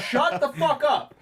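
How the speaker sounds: high, loud, slow holler; imitated yell. Fed-up audience yelling across the theater, imitated shout. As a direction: yell it like someone across the room. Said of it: "are yelling".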